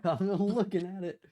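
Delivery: high, loud mock holler; acted shouted echo. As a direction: shout it back after a laugh. Echoes the acted shout across table.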